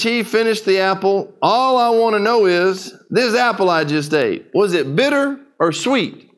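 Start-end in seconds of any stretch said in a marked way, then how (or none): 1.4-6.3 put-on old preacher voice. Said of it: "an old dark-skinned preacher".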